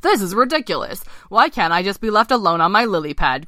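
mildly indignant frog; croaking frog. Acted. Ken protesting as the princess approaches his pad, croaking. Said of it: "croaked Ken the big frog".

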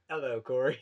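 loud, hammed-up British hello; British accent. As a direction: put on a playful British accent. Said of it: "I've become British".

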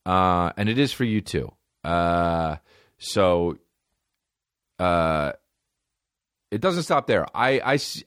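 upbeat sponsor read, straight to listeners. Acted. Host reading a sponsor spot to listeners, upbeat ad read. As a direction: sell it like a podcast host ad.

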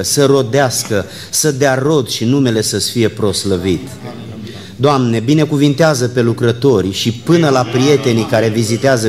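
earnest spoken prayer, building in intensity; public prayer. Real, not acted. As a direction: address God on behalf of the congregation in measured phrases. Leads congregation in prayer. (rugăciune rostită cu ardoare)

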